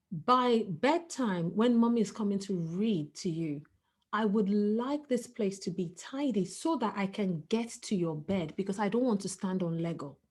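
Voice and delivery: put-on soft, calm, patient reminder to a child; calm bedtime reminder. Mother calmly tells her son to tidy by bedtime, soft and patient. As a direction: gently set the rule without scolding. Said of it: "I say to him".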